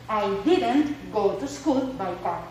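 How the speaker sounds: slow, careful English example; slow model sentence. Shown as a demonstration. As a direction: spell the contraction out slowly. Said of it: "Entonces me quedaría".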